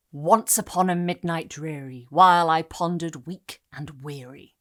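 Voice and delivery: falling stressed-unstressed beat on "Once upon a midnight dreary"; trochaic metre. Shown as a demonstration. Lecturer reciting The Raven's opening to demonstrate its metre, trochaic beat. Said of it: "each foot has a stressed syllable".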